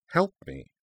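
high-pitched, offended disbelief; incredulous echo. Acted. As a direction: throw the words back, high and indignant. Garnet repeats his words in disbelief.

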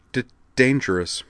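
high, halting stammer; stuttering shy girl. Acted. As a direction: stumble nervously over each word. Kate voiced with a stutter.

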